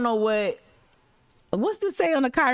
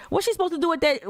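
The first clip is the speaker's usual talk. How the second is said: indignant; 8 semitones higher, faster than usual. Real, not acted. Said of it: "rhetorical outrage".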